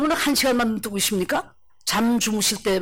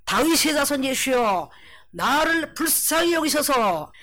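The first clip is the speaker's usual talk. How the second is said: slow, drawn-out plea, pitched up at the end; crying out; 4 semitones higher, slower than usual. Acted. Blind beggar calling to Jesus for mercy, crying out. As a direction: call out slowly for mercy. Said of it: "소리 질러 가로되".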